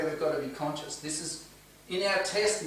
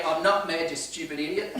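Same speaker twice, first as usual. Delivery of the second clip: rude retort. Pretend. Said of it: "He didn't say".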